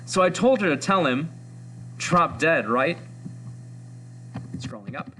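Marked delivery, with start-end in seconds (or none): 0.1-3.0 lightly voiced gossiping teen girl, a bit higher; chatty schoolgirl gossip, only lightly put on; teenage girl voice. Reading the comic's teen girls aloud to the class, a hint of girlish gossip. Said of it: "I'm doing my best with this teenage girl voice".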